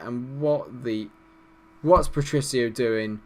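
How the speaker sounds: usual speaking voice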